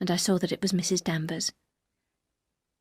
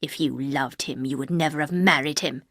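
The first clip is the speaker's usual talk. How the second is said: cold housekeeper; 5 semitones lower than usual. Acted. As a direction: let each word fall heavily. Voices Mrs Danvers.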